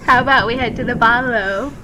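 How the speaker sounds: English-sounding Aussie attempt. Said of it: "she's come from London".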